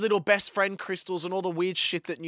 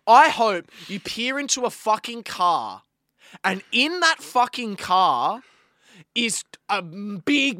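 louder, raised voice, slowing on the second line; angry rant; 4 semitones higher, 6 dB louder, slower than usual. Real, not acted. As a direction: vent at the thief with real heat. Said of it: "because I'm really fucking mad".

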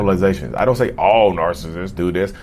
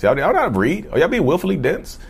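exasperated disbelief; 7 semitones higher than usual. Real, not acted. Exasperated at commenters.

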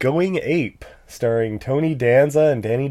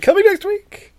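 laughing, pitched up; 5 dB louder than usual. Real, not acted. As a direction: laugh through the joke. Joking reply with laugh.

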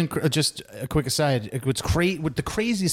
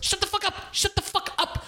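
screaming at the radio. Retold or imitated. Yelling at the radio.

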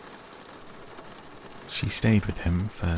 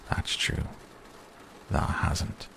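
odd quiet; 6 dB quieter, slower than usual. A narrator's reading. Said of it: "in such an odd way".

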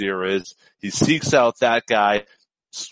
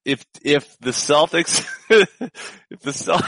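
trying not to laugh; 3 semitones higher than usual. Real, not acted. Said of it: "this is terrible".

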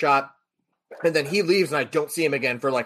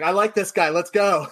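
higher, eager cheer; excited approval; 5 semitones higher than usual. Retold or imitated. Fiancee cheers on the man who defended her, excited. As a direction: imitate someone thrilled and ready to go. Fiancee's delighted reaction, retold.

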